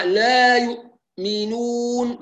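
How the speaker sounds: لا يؤمنون with a gap after the hamza; فصل خاطئ; split hamza mistake. Shown as a demonstration. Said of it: "فصل بين الهمزة".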